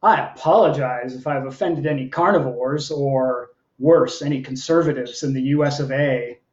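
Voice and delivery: measured, performed poem with lilting phrases; poetry reading. Acted. Poet reading to an online audience, performed delivery. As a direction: read it as a live poem, line by line. Reads own poem aloud.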